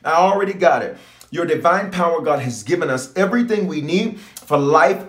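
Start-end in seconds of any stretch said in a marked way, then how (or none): 0.0-1.0 bold claim. Shown as a demonstration. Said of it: "I need you to say it like that".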